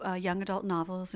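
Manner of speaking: ordinary talk, nothing marked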